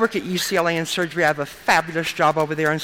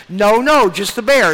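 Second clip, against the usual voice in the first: put-on louder, higher child's insistence; little girl; 3 semitones higher, 7 dB louder, slower than usual. Three-year-old patient correcting the nurse, loud and high. Little girl's reply, retold.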